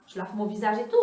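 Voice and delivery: usual speaking voice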